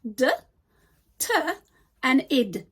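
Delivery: "D", "T" and "id" as three separate sounds with pauses; isolated ending sounds. Shown as a demonstration. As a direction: sound out "D", "T", "id" one by one. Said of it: "three different ways of pronouncing regular verbs".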